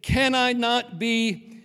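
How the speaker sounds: a lightly voiced God, gentle then firmer; God's tender plea. God answers Jonah.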